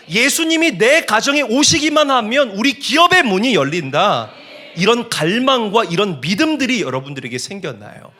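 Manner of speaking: high, loud, driving pulpit cadence; full-force preaching. Real, not acted. Preacher promising families that problems will be solved, full-force preaching. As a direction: proclaim it to the congregation with conviction.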